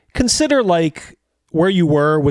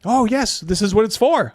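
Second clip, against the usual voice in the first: higher, insistent hawker; spice vendor; 7 semitones higher than usual. Acted. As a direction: keep selling, a lot higher. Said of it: "vendor insists".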